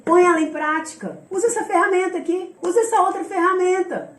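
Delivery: high, pressing list of commands; mentor's instructions. Retold or imitated. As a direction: fire off instructions as an impatient mentor. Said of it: "Ele vai falar assim".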